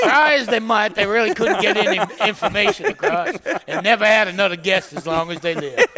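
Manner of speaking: lightly voiced folksy storyteller; hee-haw narrator. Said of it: "I like your other one".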